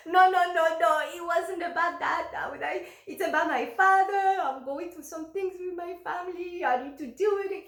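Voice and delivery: high, loud, flustered objection; retold frantic protest. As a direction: protest urgently, re-enacting your own panic.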